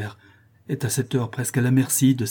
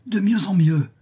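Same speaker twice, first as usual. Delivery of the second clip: much higher, delighted exclamation; exclaiming; 9 semitones higher than usual. A narrator's reading. Rodolphe delighted by her retort, exclaiming. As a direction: relish every word. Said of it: "s'écria Rodolphe".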